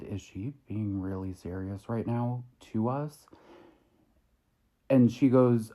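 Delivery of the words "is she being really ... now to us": hushed, voiced mock whisper; quiet aside. Whispered to my partner about the clerk, hushed aside. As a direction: drop softer, as if confiding in a partner. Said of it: "I quietly whispered to my partner".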